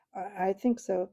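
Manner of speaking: out of breath, stammered; gasping after the fight; panting. Acted. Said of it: "panted Edward".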